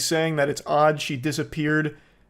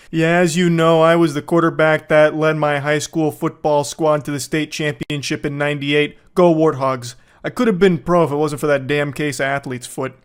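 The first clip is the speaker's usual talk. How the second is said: washed-up loser; 3 dB louder than usual. Retold or imitated. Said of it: "some washed up loser who's like".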